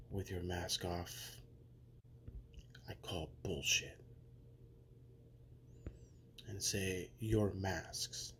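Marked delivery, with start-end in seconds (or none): 2.9-4.0 scornful whisper. Acted. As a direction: whisper it with contempt. Dismissive hushed retort.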